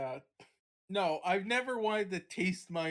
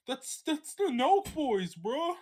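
impressed partygoer; 8 semitones higher, 5 dB louder, slower than usual. Retold or imitated. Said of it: "It's like".

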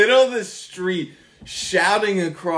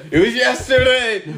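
high, louder and insistent; exasperated; 10 semitones higher, 5 dB louder than usual. Real, not acted. A friend chides Peter for forgetting Bible study, exasperated exclaim. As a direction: push him, it was only yesterday. Friend can't recall yesterday.

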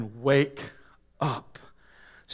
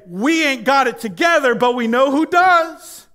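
confessing congregation; 5 semitones higher, 4 dB louder than usual. Retold or imitated. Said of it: "We're going to say".

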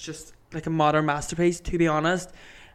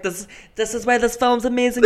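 gushing; 7 semitones higher, 3 dB louder than usual. Retold or imitated. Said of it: "I'm like".

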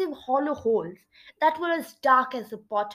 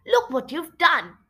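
higher-pitched exasperated scolding; exasperated reproach; 5 semitones higher, 4 dB louder than usual. Acted.

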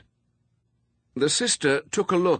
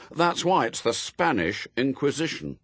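put-on higher-pitched, firm child's assertion; 6 semitones higher than usual. A narrator's reading. Boy explains the inquisition to his gang, firm. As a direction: state it firmly, settling the matter. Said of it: "said Adam firmly".

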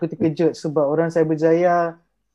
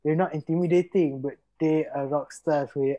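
hushed awestruck murmur; 9 dB quieter than usual. Retold or imitated. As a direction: mutter it under your breath in awe. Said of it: "Aku macam".

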